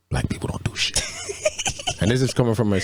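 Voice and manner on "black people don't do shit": hushed confidential whisper; imitating a furtive whispered aside. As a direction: whisper it like a secret. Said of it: "she whispered".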